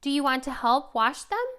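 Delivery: playful parentese. Shown as a demonstration. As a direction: invite the toddler to help with the dishes. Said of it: "You can say".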